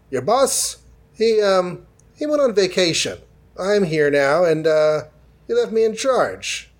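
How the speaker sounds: high, put-on innocent voice, lightly hammed; covering with a lie. Iron Man lying to his assistants about the boss, high fake-innocent voice.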